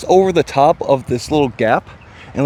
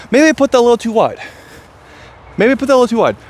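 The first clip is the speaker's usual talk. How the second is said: doubtful inner voice; 8 semitones higher, much faster than usual. Retold or imitated. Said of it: "I did kinda think to myself".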